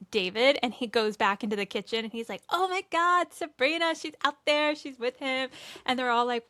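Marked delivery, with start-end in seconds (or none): 2.5-5.5 high, breathless gossiping servant; excited gossip. Retold or imitated. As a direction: spill the news like hot gossip. Servant gossiping about Sabrina.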